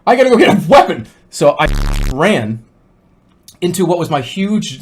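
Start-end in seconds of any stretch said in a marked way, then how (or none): 0.1-1.1 higher, agitated outburst; retold frantic panic. Dreamer after barely shutting out the tiger, frantic. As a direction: build frantically to a loud resolve.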